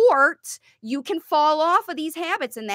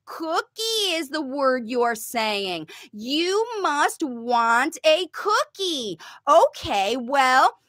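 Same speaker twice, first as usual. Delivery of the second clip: a light sing-song parent offering cookies; modeling parent voice; 2 semitones higher than usual. Shown as a demonstration. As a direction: talk the child through the cookie, slowly. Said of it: "You say".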